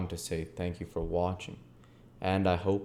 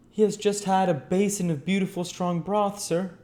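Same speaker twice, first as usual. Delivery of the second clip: high, louder housekeeper voice with weight on "broth"; emphasis on broth; 13 semitones higher, 6 dB louder than usual. Acted. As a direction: stress "broth" with wounded pride. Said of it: "laying a strong emphasis on the last word".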